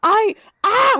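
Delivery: high, loud strangled cry; disgusted cry. Real, not acted. Recoiling at the memory of the episode, a loud yelp. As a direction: let out a revolted yelp.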